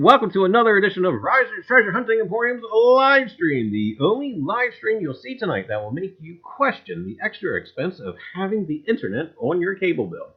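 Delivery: upbeat host intro with a dry joke; show host welcome. Acted. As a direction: open the show like an announcer.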